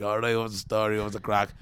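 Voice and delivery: easy Irish-accented greeting. Shown as a demonstration. Immigrant showing how he picked up local talk, Irish accent. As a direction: toss off the slang in an Irish accent. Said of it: "speaking like the Irish now".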